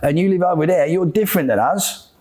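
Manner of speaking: lightly put-on English accent. Shown as a demonstration. Demonstrating us and them across countries, English accent. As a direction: try a casual English accent. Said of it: "This is English accent".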